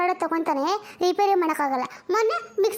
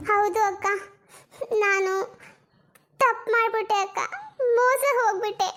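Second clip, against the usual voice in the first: tearful confession; 3 semitones higher than usual. Acted. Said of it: "ಇದಕ್ಕೆ ಹಿಂಗೆ ಅಳ್ತಿದ್ಯಾ?".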